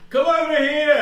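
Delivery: high, very loud hail across a distance; big bellowed call in a booming voice; booming shout. Pretend. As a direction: boom it out to someone far away. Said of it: "a booming voice".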